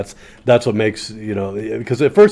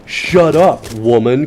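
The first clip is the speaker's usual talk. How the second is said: mock rude snap; 4 dB louder, slower than usual. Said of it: "he's basically like".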